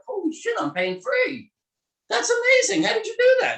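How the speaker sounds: high, loud amazed exclamation; the patient blown away, pain gone. Retold or imitated. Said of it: "he's like".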